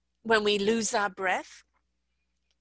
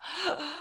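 demo gasp; 7 semitones higher, 7 dB quieter than usual. Shown as a demonstration. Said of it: "You'll just find yourself".

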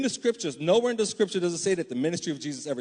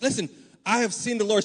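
higher, louder, bursting with the news; excited; 6 semitones higher, 4 dB louder than usual. Retold or imitated. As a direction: tell it like you can't hold it in. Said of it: "she's excited and she's like".

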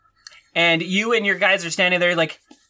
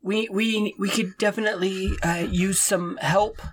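stammering, halting peasant pleading with a lord; nervous stammering farmer. Acted. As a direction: stutter through it, scared to ask.

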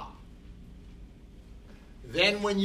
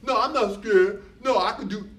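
little voice insisting; 6 semitones higher, 6 dB louder than usual. Retold or imitated. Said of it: "And a little voice says".

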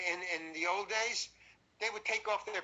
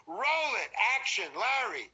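raised, drawn director's call; calling action; 3 semitones higher, 5 dB louder than usual. Retold or imitated. Director starts the take for his actor, calling out. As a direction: imitate a director calling out to set.

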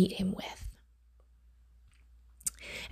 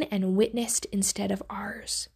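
hushed whisper; 7 dB quieter than usual. Acted. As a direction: drop to a whisper on the last words. Preacher hushes on God's power.

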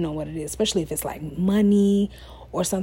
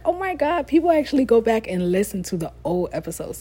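excited disbelief; 3 semitones higher than usual. Retold or imitated. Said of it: "I be like".

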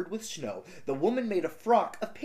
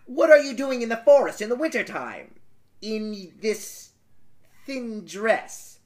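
curious elves; 5 semitones higher than usual. Acted. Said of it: "They asked".

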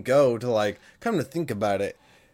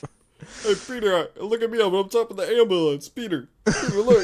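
higher, calling out to Peter; excited calling out; 8 semitones higher, 3 dB louder than usual. Acted. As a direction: shout up from the ambulance. Acted yelling at Peter from ambulance.

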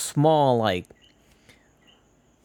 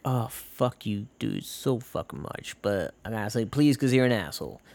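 grudging aside; 5 dB quieter than usual. Acted. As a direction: grumble it softly under the words. Grudging thought behind saying please.

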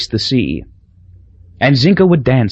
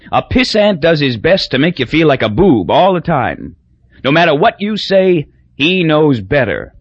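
put-on higher, pushier drunk rant; drunk ranting Crosby; 6 semitones higher than usual. Drunk Crosby explaining piss ants to strangers, higher-pitched rant. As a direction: hammer home every point like a bar bore.

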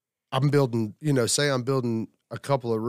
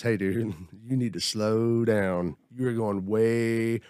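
slow, unhurried voice of God, with a laugh at the start; slow, chuckling divine correction; God's voice; slower than usual. Retold or imitated. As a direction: draw it out as if God is gently telling him off. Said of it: "that was my lesson this week".

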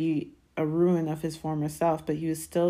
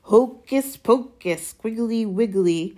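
slow, loud, higher fake spell; menacing mock conjuring, raised and slow; fierce incantation; 6 semitones higher, 6 dB louder, slower than usual. A narrator's reading. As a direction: draw out the pretend spell fiercely. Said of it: "in a fierce voice".

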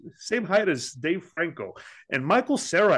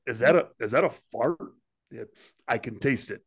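lightly voiced low stoner; a hint of stoner impression; Seth Rogen; 4 semitones lower than usual. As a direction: puzzle it out as a comic stoner. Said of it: "Seth Rogen as the Big Zo".

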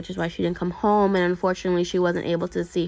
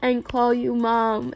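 higher, tearful voice for a retold quote; choked-up, higher-pitched quoting; tearful retelling; 5 semitones higher than usual. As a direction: retell her words on the edge of tears. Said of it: "crying just thinking about it".

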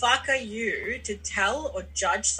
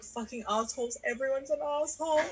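higher, put-on voice of a sulking self; bitter grumbling inner voice; 4 semitones higher, 5 dB quieter than usual. Imitating her past self alone, sulking and grumbling. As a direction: grumble at everyone as the petty old self. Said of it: "alone and be like".

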